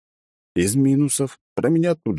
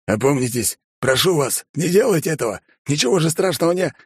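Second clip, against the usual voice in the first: pleading; 9 semitones higher, 3 dB louder than usual. A narrator's reading. Sergeant pleads.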